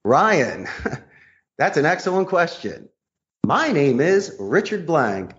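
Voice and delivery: a slow, deliberate name reveal; friendly reassuring reply. Shown as a demonstration. Salesman answers the gatekeeper's sharp question, slow and warm. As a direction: answer the question warmly and take your time. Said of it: "And I would say".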